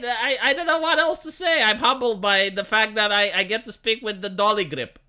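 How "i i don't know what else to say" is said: laughing. Real, not acted. Laughs at dolly grip.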